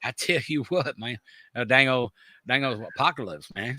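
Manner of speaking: lightly done mumbling Southern drawl, cartoon style; Boomhauer drawl. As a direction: roll the words together in a lazy Southern accent. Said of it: "Fucking Boomhauer on that shit".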